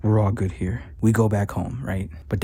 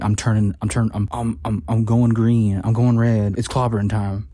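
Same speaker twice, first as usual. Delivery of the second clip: hammed-up transformation. Ross losing control and turning red, mock rising roar. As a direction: build it like a monster breaking out.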